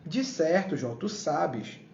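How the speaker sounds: slow, drawn-out mock concession; ironic. Preacher reading God's answer to Job, ironic. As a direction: concede it with lightly sarcastic slowness. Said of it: "Deus usando de ironia".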